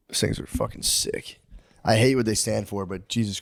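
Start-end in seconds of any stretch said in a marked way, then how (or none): 0.1-1.4 hushed, slow, half-guilty whisper; a quiet, slow whisper of admiration; awed whisper. Real, not acted. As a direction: breathe it out, awestruck. Awed by swastika aesthetics.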